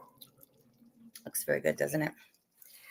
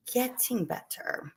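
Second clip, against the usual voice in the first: "getting better" stretched out slowly and softer; slow, drawn-out repeat; 6 semitones higher, 6 dB quieter, much slower than usual. Real, not acted. Slower repeat of the same words.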